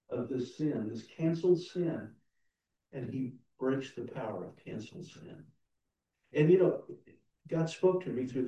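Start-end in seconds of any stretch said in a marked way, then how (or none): 2.9-5.4 much softer, inward repeat of breaks; hushed hymn line. Shown as a demonstration. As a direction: let he breaks the power sink in quietly. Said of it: "we sing the hymn".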